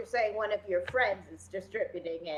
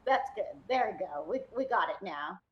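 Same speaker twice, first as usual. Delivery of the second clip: softer, lower, patronizing comfort; smiling reassurance; 4 semitones lower, 3 dB quieter than usual. Acted. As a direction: settle down into a smile as you soothe. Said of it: "I start smiling and, like, patting him".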